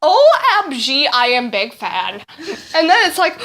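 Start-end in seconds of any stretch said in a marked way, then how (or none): 0.0-2.2 mock fangirling. Hammed-up fan reply.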